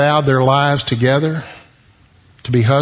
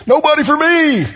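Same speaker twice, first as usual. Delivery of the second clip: mournful Adam; 11 semitones higher than usual. Acted. Adam lamenting.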